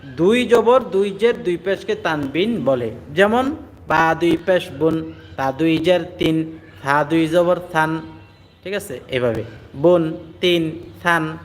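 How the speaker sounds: বুন তিন থান said slowly with clear n; tanwin demo. Shown as a demonstration. Quran teacher drilling tanwin for students: slow বুন তিন থান. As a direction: stretch each tanwin ending into n. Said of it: "তানবিন কাকে বলে?".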